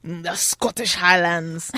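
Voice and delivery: drawn-out attempt at a Scottish accent; bad Scottish accent. Shown as a demonstration. Host mangling a play's setting in a bad Scottish accent. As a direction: have a poor go at Scottish. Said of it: "the worst Scottish accent".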